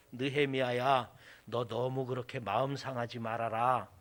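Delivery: low, soft fatherly reassurance; gently calm him down as God would; soothing God. Acted. God soothing Nehemiah, voiced by preacher.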